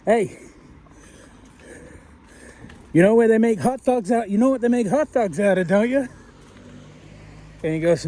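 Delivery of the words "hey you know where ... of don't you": Dan Aykroyd quote. Retold or imitated. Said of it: "Dan Aykroyd says to".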